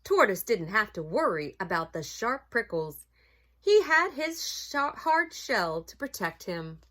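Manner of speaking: put-on animated storybook reading for children; story narration. A narrator's reading. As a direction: read it aloud to children, savoring key words.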